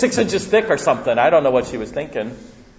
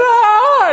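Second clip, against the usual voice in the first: put-on shocked child's gasp; 8 dB louder than usual.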